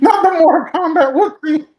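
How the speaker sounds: high, loud laugh through the words. Real, not acted. GM laughing at the player's blunder, laughing out loud. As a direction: crack up mid-line.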